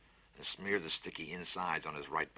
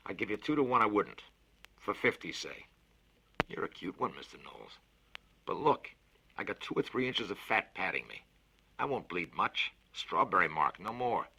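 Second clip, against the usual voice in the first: a lightly voiced big bluff man, louder; hearty Fats; 4 semitones higher, 6 dB louder than usual. Fats offers to plug the leak himself, bluff and louder. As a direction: boast it cheerfully, a touch louder. Konski bets and insists.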